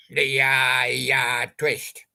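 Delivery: slow breathless whisper of the title. Acted. Slow whisper of the song title for the group.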